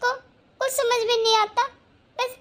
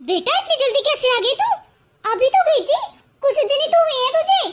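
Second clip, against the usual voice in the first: surprised laugh; 5 semitones higher than usual. Acted. Mother surprised daughter returned.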